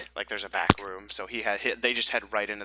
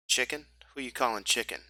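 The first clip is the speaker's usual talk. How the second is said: swaggering adventurer; 3 semitones higher than usual. Acted. Adventurer intimidating bandit who outnumbers him, mocking swagger. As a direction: needle them lightly in character.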